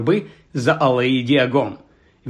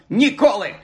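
exasperated vow; 6 semitones higher than usual. A narrator's reading. Shopkeeper swearing off the books.

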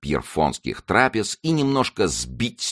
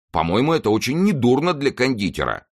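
raised-pitch protest; exclaiming; 8 semitones higher, 3 dB louder than usual. A narrator's reading. Planchet, now a confectioner, defends his riding, exclaiming. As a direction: keep exclaiming in self-defence, voice lifted. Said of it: "воскликнул Планше".

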